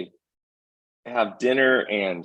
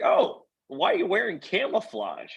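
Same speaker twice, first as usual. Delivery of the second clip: much higher voice for the curious hiker; hiker lady; 11 semitones higher, 3 dB quieter than usual. Retold or imitated. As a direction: play the puzzled day hiker, pitched way up. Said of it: "So you're like".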